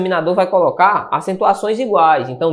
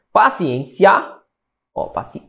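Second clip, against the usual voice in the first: "paciência" broken up, the stressed ên drawn out long; syllable-by-syllable demo; slower than usual. Shown as a demonstration. Teacher showing the class the stressed syllable of paciência, drawn out. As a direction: stretch the ên of "paciência". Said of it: "Terminada em quê".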